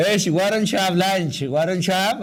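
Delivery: slow, clear suggestion; slow model phrase. Shown as a demonstration. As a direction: spell it out slowly for learners. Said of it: "ለምን ምሳ አትበላም በለኝ እስቲ".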